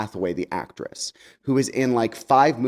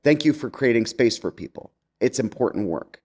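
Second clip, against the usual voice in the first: sincere thanks. Real, not acted. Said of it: "I really wanted to read that email to you so I could say".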